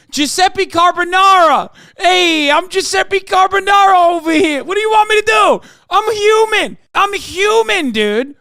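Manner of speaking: high, loud hammed-up Italian shouting; mock Italian shout. Streamer voicing a man named Carbonara: high, shouted mock Italian. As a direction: yell it like an outraged cartoon Italian.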